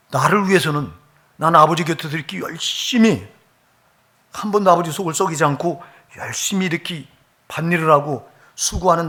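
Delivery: preacher voicing a bitter older son, indignant; aggrieved son. Preacher voices elder son's complaint.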